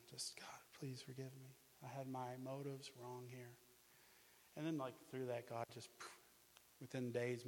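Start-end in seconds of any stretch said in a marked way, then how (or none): 0.4-3.6 soft, slow whispered confession; tearful whisper. Retold or imitated. Alone before the TV at night, asking God's forgiveness, tearful whisper. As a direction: whisper it through tears, repentant. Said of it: "crying and crying".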